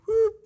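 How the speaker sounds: quick imitated turning whoop; a little whoop for a sudden turn. Imitated noise of turning around.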